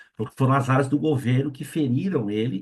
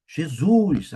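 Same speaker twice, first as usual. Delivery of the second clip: a retold gasp of shock, raised; startled cry; 4 semitones higher, 4 dB louder than usual. Frightened man crying out to Jesus in shock. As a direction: blurt the name in sudden fright. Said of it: "Aí ele levou um susto".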